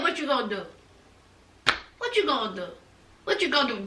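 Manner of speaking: soft, low, insistent repeat; low challenge. Retold or imitated. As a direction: drop it down and press the question. Retold repeated challenge, voice dropped.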